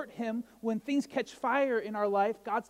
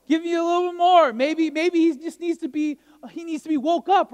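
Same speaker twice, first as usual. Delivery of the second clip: mocking, high and loud taunt; Elijah; 9 semitones higher, 12 dB louder than usual. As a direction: needle them with loud, acted-out ridicule. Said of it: "Elijah mocked them".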